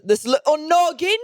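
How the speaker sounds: cutesy. Pretend. Teasing cohost.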